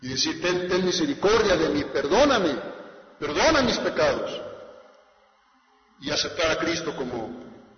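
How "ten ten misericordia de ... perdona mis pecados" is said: louder begging for mercy; pleading sinner. Acted. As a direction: cry out to God for forgiveness. Sinner's voiced plea to God. (súplica de pecador, más fuerte)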